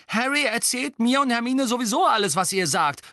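high, loud, worked-up protest; indignant shout. A narrator's reading. Ron protesting to his mother at being excluded, indignant. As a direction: burst out indignantly. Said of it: "rief Ron aufgebracht".

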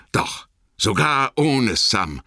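slow, heavy "ohne" falling away; resigned. A narrator's reading. Sam admits Frodo left without him, resigned. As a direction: sad admission, dragging "ohne".

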